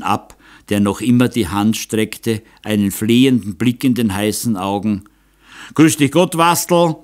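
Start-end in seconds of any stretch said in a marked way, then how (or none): 5.7-7.0 high, loud, uncertain greeting call; a hearty hello that wavers underneath; a bit unsure. A narrator's reading. The count greets an unexpected visitor, forced and a little unsure. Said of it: "rief Graf Ecke ein bisschen unsicher".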